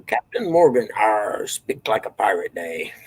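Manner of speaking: a hint of a growly pirate. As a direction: toss off a jokey pirate "arr". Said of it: "I don't know why I say that".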